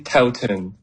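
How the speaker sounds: "Totten" said as "TOW-ten"; English pronunciation. Shown as a demonstration. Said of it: "en anglais, vous avez bien réussi".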